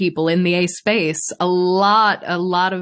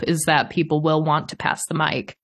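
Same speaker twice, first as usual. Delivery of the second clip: ordinary talk, nothing marked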